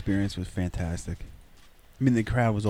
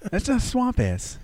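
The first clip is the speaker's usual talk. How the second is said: laughing; 12 semitones higher, slower than usual. Real, not acted. Still laughing, punchline.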